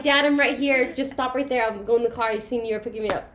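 mock calling out. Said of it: "I should have just been like".

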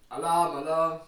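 loud mock alarm call; alarm shout. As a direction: shout it out like a warning siren. Mock alarm for German teachers.

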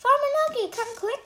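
very high, loud call; yelling for help. Acted. Girl yelling to the farmer for help, high and loud. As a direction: yell for the farmer. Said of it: "I yell".

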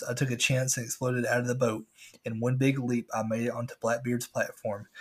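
ordinary talk, nothing marked

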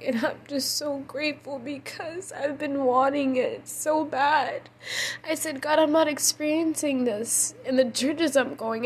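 tearful pleading. Real, not acted. Tearful recounting of prayer to God.

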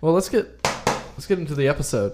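loud energetic intro. Real, not acted. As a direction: burst in loudly. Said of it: "That was very loud".

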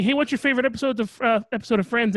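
imitated fan question. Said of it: "when people ask me".

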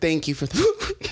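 imitating an instant drop into politeness; suddenly civil, voice back down from the yelling; sudden polite switch. Girl turns from fight to delivery driver, mock politeness. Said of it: "She changed tones just like that?".

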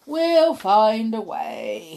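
slow, slurring the words; slurred. A narrator's reading. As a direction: let the words slur together. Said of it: "he slurred".

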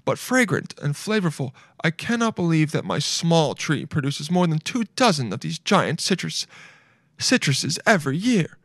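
put-on hostess voice with swooping intonation; imitating Martha Stewart. Reading her lemon post aloud, lightly imitating her. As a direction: let the pitch swoop on each descriptive word. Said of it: "I'm trying to say it like her".

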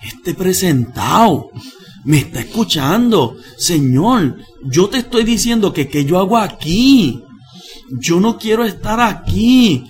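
pleading with God, voice climbing; tearful prayer. Retold or imitated. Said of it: "sigo llorando y digo en la mente". (oración entre lágrimas, la voz subiendo)

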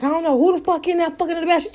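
mocking security guard. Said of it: "So she was like".

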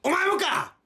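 high, loud exasperated cry; mock outrage. Real, not acted. Reacting to his friend's lazy "so what?", high and loud. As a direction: throw up your hands in mock disbelief.

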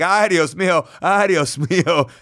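oversold mock alarm; overplayed panic. Wrestler fleeing the invader's table, in hammed-up mock panic. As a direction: ham up the fright as you flee. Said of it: "really overselling it".

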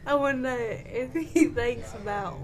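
laughing through lines. Acted. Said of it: "I gotta get into the character".

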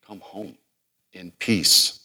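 starts hushed, then swells to a fervent plea; lightly voiced loving Hosea; tender call home. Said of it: "I always chuckle when I say".

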